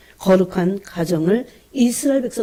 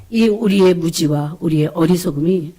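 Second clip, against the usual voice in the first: louder, pleading prayer, re-enacted; mild re-enacted outcry in prayer; retold crying out; 2 semitones lower, 4 dB louder than usual. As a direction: recount a cry to God with raised volume. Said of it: "이러고 부르짖었어요".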